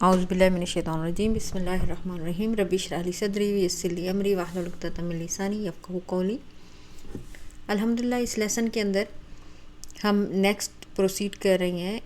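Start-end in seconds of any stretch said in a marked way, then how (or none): 0.0-6.4 brisk recitation of the opening prayer, quicker than her chat; quick devotional recitation. Real, not acted. Teacher opening the lesson for her students with brisk prayer recitation. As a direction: rattle off the familiar opening invocation quickly.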